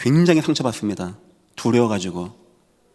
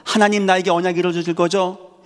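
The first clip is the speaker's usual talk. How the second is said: higher, earnest plea to God; pleading prayer; 5 semitones higher than usual. Retold or imitated. Joseph praying while sold away, higher pleading. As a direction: beg God to keep his word. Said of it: "팔려가면서도".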